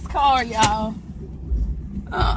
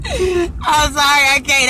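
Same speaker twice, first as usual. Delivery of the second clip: laughing; 3 semitones higher, slower than usual. Real, not acted. Cracking up at own joke.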